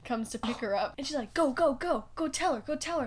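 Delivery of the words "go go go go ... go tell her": higher, insistent friend's urging; urgent prodding. Retold or imitated. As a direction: imitate a friend pushing you forward. Friend urging her on, retold.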